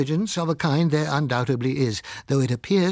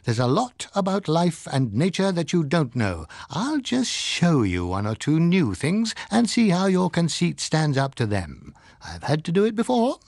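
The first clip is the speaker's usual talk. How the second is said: higher, lofty mock God voice lecturing mankind; imagined God scolding; 6 semitones higher than usual. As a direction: play a condescending God chiding his conceited little mites. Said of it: "he was saying".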